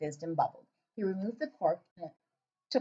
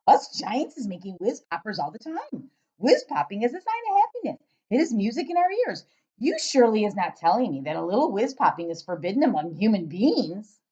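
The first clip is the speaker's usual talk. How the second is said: loud giant voice; 6 dB louder than usual. Acted. Giant questioning the girl, booming and puzzled.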